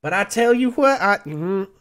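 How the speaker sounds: hint of a storytelling tavern investor; lightly voiced Maloon. Maloon recalls being promised repayment by Oz, lightly acted storytelling. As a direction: spin it out like a skeptical lender. Game master plays Maloon.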